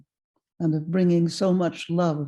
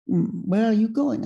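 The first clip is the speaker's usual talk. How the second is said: put-on higher French-accented question; lightly voiced French old gentleman; 4 semitones higher than usual. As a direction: imitate an old Frenchman asking. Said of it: "he said to me in a French accent".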